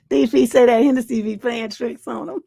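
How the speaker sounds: talking through real laughter; laughing hard. Real, not acted. Host reading a viewer's joke aloud, laughing hard. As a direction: read it out while cracking up. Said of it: "that's why I'm laughing so hard".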